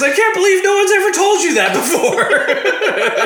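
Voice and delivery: high-pitched yell breaking into laughter; mock taunting shout. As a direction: hurl it as a parting insult, hammed up. Retelling player's taunt to umpire.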